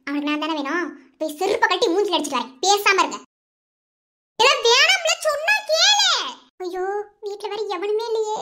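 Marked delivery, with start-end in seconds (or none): 4.4-6.1 frightened pleading. Acted. Begging him not to go. 6.6-8.4 distressed wail. Acted. Panicking, no one at home.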